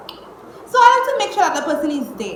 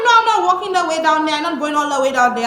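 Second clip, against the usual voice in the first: fast, raised retold protest; worked-up retelling of a refusal; indignant refusal; 3 semitones higher, 3 dB louder, faster than usual. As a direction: refuse point-blank, quickly. Retold refusal to walk at night.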